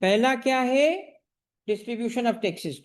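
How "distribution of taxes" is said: very slow, each word drawn out; slow dictation. Shown as a demonstration. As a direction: draw it out for the notebook. Teacher dictating the answer again. (धीमे-धीमे बोलकर लिखवाना)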